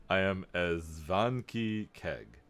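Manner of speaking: slow, weighty priest introduction; deep voice. Acted. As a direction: announce the name in a put-on deep voice. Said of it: "he says in a deep voice".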